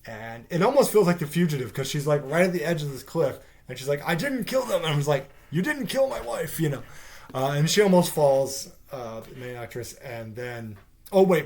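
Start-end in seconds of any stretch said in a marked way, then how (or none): 4.0-4.8 high, louder mock plea; mock protesting. Reviewer imitating the accused at a cliff edge, mock protesting. 5.5-6.6 high-pitched parody retort; hammed-up film quote, pitched high; mock movie line. Reviewer spoofing The Fugitive in reply to her, mock dramatic.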